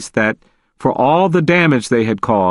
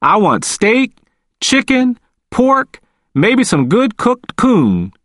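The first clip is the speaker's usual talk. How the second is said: Walter's voice; 10 semitones higher, slower than usual. A narrator's reading.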